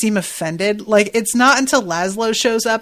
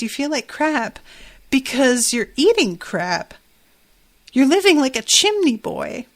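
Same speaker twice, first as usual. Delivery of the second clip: lightly voiced Nadja, pitched higher and scolding; host imitating Nadja telling Jenna off, mildly raised pitch; quoting Nadja; 5 semitones higher than usual. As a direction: give the chimney boy line as Nadja, a touch haughty. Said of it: "And Nadja says".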